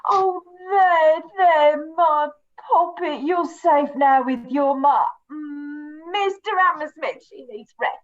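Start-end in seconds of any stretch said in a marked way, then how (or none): 0.1-5.0 motherly comforting. Acted. Mother comforting frightened girl.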